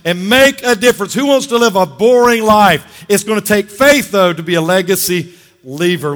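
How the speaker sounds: fired-up call to leave a legacy; charged-up preaching. Real, not acted. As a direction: pump the crowd up. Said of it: "I'm excited today".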